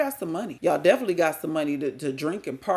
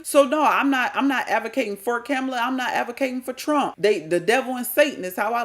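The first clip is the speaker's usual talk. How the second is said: higher and louder, rising indignation; heated outburst; 5 semitones higher, 3 dB louder than usual. Real, not acted. Vlogger railing at viewers about who chose Kamala, heated and loud. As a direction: fire off the questions in disbelief.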